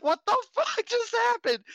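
re-live the jaw-drop moment; stunned disbelief. Retold or imitated. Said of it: "And I was like".

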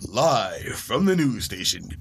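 lightly voiced, slow anchor opening; news anchor. Mock news anchor going live from the station, slowly. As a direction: mimic a TV news intro, slowly. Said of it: "Them, W S D N".

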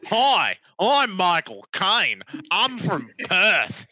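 put-on slow, lightly done Australian accent; mock Australian accent. Pretending Michael Caine is from Perth, a mock Australian accent. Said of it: "I don't know why I'm making him Australian".

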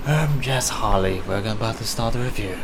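lightly voiced scary British villain; a hint of British menace; restrained villain in a British accent; Black Mask. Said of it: "I'm supposed to be the scary British guy".

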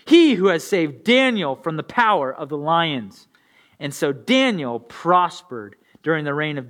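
measured, earnest Bible reading; scripture reading. Acted. Pastor reading Daniel to his congregation, earnest. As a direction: read the passage like it matters.

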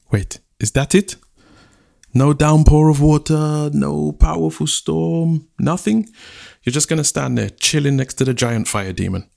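can't believe what he's seeing; incredulous chief. Acted. Chief scolding lazy Rain, incredulous.

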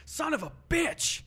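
high, sudden mock outburst; startled retold curse. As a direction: imitate a dad cursing in fright. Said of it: "it scared him".

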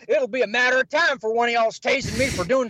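carny laughs off being tased by cops, excited and high. Retold or imitated. Carny laughing off the taser idea.

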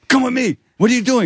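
squeaky comic cop; police officer suddenly friendly to the sound man; high mock voice. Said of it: "the guy goes".

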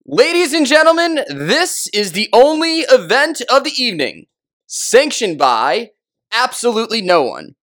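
high, booming ring announcer; Bruce Buffer. Acted. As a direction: boom it out like a boxing ring announcer. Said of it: "we have Bruce Buffer Beam".

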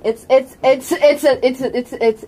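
real tongue-tied stammer; stuck stuttering on the same words. Real, not acted. Game master can't find the word for an object, tongue-tied. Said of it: "I can't speak".

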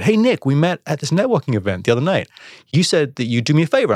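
perky opener to ask a favor; upbeat caller. Retold or imitated. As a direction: imitate an eager acquaintance on the phone. Acts out a friendly phone caller.

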